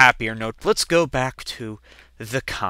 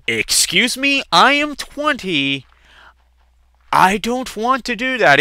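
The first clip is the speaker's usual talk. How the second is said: incredulous protest; 9 semitones higher, 3 dB louder than usual. Retold or imitated. Son protests to dad.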